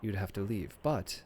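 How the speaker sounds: lightly voiced librarian, politely evasive; a hint of a prim librarian dodging the question. Game master voicing a librarian who dodges the players' question, politely evasive.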